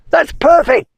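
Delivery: high squeaky plea; pleading spider. Acted. Spider begging the wizard, high and pleading. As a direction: beg in a tiny high voice.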